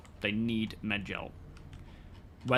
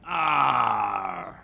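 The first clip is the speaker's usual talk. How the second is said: mock cry of pain; 5 dB louder than usual. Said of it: "missed the shot and went".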